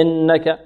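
"إنك" said as "ennaka"; imala error. Shown as a demonstration. Teacher repeating the faulty imala, opened vowel. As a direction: let the i of "إنك" slide toward e. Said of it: "إمالة".

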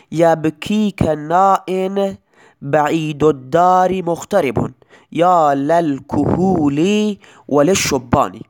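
slow, measured reading of the Arabic verse; poem recitation. Shown as a demonstration. Teacher to students, reciting the example verse slowly. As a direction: recite the verse slowly, weighing each word. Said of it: "مانند این مثال".

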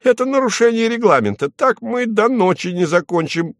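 high, fast, whining complaint; a clerk fretting about the clock; tearful cry. A narrator's reading. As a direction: rush it out, on the edge of tears. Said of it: "плачущим голосом закричал Фарфуркис".

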